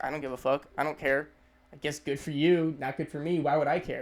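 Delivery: indifferent brush-off; not caring. Acted. Shrugging off someone's good news, indifferent. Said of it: "That's kinda what it's supposed to".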